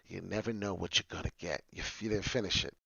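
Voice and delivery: ordinary delivery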